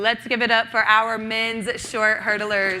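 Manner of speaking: slow, drawn-out rallying announcement; applause call. Real, not acted. Host asks crowd to applaud the hurdlers, slow announcer call. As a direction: lift it for the crowd, stretching the words.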